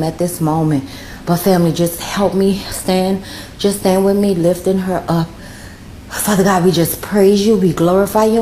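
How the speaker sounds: praying aloud, earnest and conversational; spontaneous spoken prayer with falling phrase ends; heartfelt prayer. Real, not acted. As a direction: intercede for a friend, addressing God directly.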